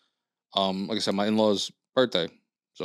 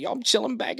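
much higher relative bragging; retold excited voice; 12 semitones higher than usual. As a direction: toss it off high and giddy. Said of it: "he was like".

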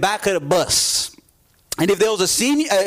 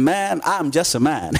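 humbled; 5 semitones lower than usual. Retold or imitated. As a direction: let "just a man" sink in, humbled. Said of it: "I left practice like feeling".

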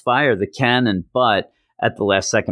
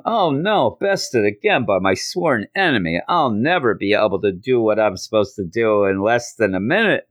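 hammy fake defeat. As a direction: overact the loss. Chance fakes his defeat.

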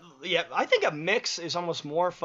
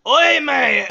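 mock British accent; 8 semitones higher, 10 dB louder than usual. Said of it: "my voice would go well with a British accent".

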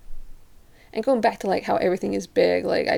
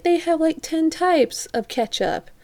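high, wide-eyed exaggeration; mock amazement; 9 semitones higher than usual. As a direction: play up the shock of too many choices. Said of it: "she's like".

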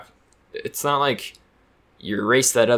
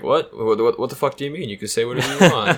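incredulous host; 2 semitones higher than usual. Retold or imitated. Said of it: "And they're like".

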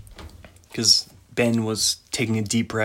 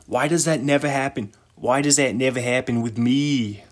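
put-on Irish bodyguard accent. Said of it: "says the Irish bodyguard guy".

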